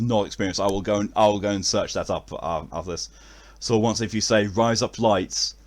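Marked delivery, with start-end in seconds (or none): 4.5-5.5 "Rise up lights" said slowly, as separate words; sound-alike for Aussie accent. Shown as a demonstration. Testing an Aussie accent trick, slow sound-alike "Rise up lights". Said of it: "he said like an Aussie sound".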